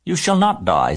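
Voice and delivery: high, firm declaration; no-nonsense spider taking charge; brisk. A narrator's reading. Spider promises pig he will live, brisk. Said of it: "said Charlotte briskly".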